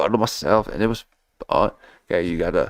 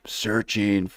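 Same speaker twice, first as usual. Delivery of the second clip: whispered echo; 4 dB quieter than usual. Shown as a demonstration. Echoing his own word.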